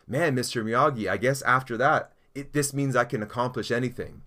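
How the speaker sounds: lightly acted cocky confidence; built-up confidence. Pupil to teacher after catching the fly, mock confident. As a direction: play a pupil mildly full of himself. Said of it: "his confidence is built up".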